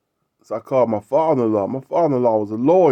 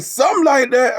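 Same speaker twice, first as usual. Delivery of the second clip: imitating a tearful man; 12 semitones higher than usual. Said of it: "this man had tears in his eyes".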